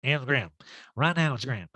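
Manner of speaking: laughy, hammed-up high voice. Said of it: "laughy, giggly".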